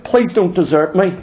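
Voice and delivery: hypothetical plea, lightly acted; a touch of imploring; mock begging. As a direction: plead with them to stay, stretching the key words. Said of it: "Is he begging them".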